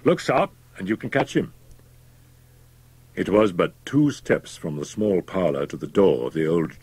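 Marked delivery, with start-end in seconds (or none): 0.0-1.5 landlord's cry. A narrator's reading. Landlord hurrying Fettes after the doctor, crying out. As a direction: urge them along at a raised pitch. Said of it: "cried the landlord".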